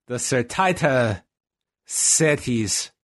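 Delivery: Survivor Series mangled by overdone rolled R's, slow. Shown as a demonstration. Host trying Survivor Series with this rolling, overdone rolled R's. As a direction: roll every R in "Certaita Cities", slowly. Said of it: "with this, this rolling".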